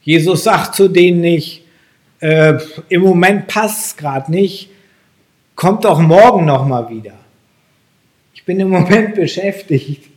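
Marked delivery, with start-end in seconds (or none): 2.2-10.1 mildly hammed-up excuse, louder than usual; half-laughing pretend brush-off; mock brush-off. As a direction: put someone off with a mock busy excuse. Mock excuse Jesus does not say.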